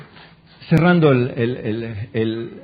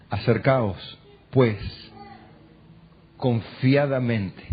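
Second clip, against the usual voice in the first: scripture quote; 6 semitones lower, 4 dB quieter, slower than usual. Acted. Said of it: "Cuando él citaba la frase".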